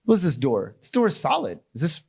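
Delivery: lightly voiced chatty firefighter gushing over the house; mock polite firefighter. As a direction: firefighter making mock pleasantries with a homeowner. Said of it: "I'm pretty sure they don't say".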